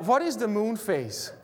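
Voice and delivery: a laugh running through "What is the moon phase?"; laughing question. Retold or imitated. Asking the friend about his watch, laughing. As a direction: ask through a laugh, amused and puzzled.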